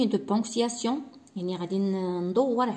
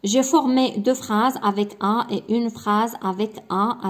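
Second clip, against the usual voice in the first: slow reading; 2 semitones higher, 4 dB louder, much slower than usual. Shown as a demonstration. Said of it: "reading a checklist slowly".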